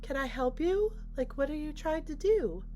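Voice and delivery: imitating an eerily calm hostess, pitched high; high, composed, lightly put-on female voice; calm mock politeness. Hostess to guests at the blocked door, calm and high. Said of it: "walks up all calmly".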